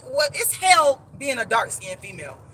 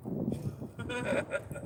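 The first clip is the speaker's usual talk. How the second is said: quiet, breath-only laugh; hushed private chuckle; soft chuckle; 2 semitones lower, 14 dB quieter than usual. Real, not acted. Laughs between remarks.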